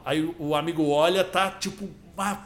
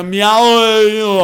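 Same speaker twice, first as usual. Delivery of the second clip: put-on Rio accent; 2 semitones higher, 7 dB louder than usual. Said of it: "se fosse do Rio".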